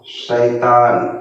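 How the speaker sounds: very slow, stretched शैतान; drawn out word. Shown as a demonstration. Teacher drags शैतान out slowly for pupils. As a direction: stretch every syllable of शैतान. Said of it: "तोड़ के पढ़ना है".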